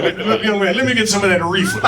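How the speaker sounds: lightly voiced old man asking for weed. Old man buying weed from his dealer, mock old voice. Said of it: "I still call for weed like an old man".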